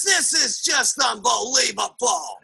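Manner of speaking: slow, drawn-out disbelief; mock fuming, each word stretched; exasperated husband. Negative husband fumes at wife's spending, exasperated.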